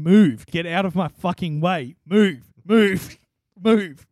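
loud mock yell of a driver stuck in traffic; angry driver yelling. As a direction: bark it like a road-raging driver, half laughing. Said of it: "a bunch of different languages saying".

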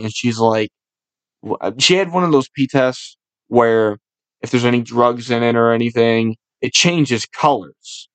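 ordinary talk

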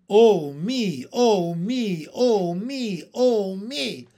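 comic woeful character voice; wailing lament. A narrator's reading. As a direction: bemoan your fate over and over. Stuck in thorns, wailing.

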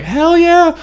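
high, loud celebratory "hell yeah"; triumphant whoop. Retold or imitated. Scene: let off by the cop, he cheers to himself with a high whoop. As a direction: cheer like you just got away with it. Relief after cop lets him go.

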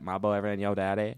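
"your" said as "yo" before "daddy"; drawn-out "yo daddy". Shown as a demonstration. Podcaster showing friends how the joke must be said, "yo daddy" with a dropped r. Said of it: "We gotta say it like that".

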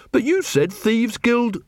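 high, slow protest; confused recruit. Acted. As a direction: object in puzzlement, pitched well up. Angua questions Carrot, confused.

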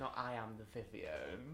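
slow, soft camp drawl; mock camp echo. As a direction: drawl it quietly, mocking. Echoing client's drag line.

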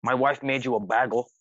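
lightly voiced odd host, BAGEL said "baggle"; imitated host voice. Host offering breakfast to the band, mild imitation. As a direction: mimic him, saying "baggle" for bagel. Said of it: "His voice is just insane".

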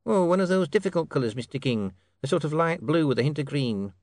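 high-pitched clerk explaining; helpful clerk. Acted. Clerk describes a colour to the king, helpful.

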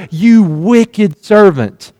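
slow, deliberate mild rebuke from the king; drawn-out reproach, understated; stern rebuke. Acted. Angry king slowly rebukes the wicked servant, mild stern voice. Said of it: "he greets him with the words".

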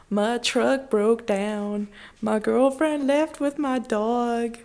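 slow, drawled country lament; sing-song country sob story, lightly mocked; a hint of a country singer whining. Parodying country song lyrics.

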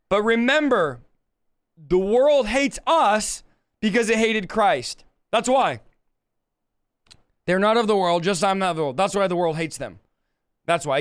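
talking around a cut under tongue; tongue hurting, words a bit off. Real, not acted. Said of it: "I have a cut under my tongue".

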